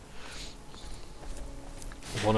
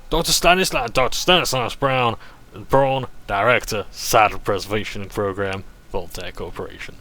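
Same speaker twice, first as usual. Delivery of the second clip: louder, hammed-up German accent on the signature; 5 dB louder than usual. Shown as a demonstration. Gamer redoing the doctor's signature, German accent. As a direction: sign off the letter like a German doctor, loud. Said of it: "meant to be said in a German accent".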